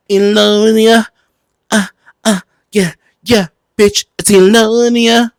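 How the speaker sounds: high, drawn-out campy cheer; high, loud mock-adoring whoop; campy hype call. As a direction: hype up the nickname like a drag fan. Hyping a mock nickname for Elon.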